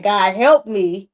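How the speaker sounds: slow, loud crying plea; desperate prayer. Retold or imitated. A mother praying in overwhelm, cries for help. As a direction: cry out for help.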